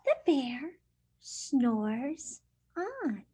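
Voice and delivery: lively picture-book read-aloud; reading to children. Acted. Teacher reading a picture book to her class, lively storytime voice.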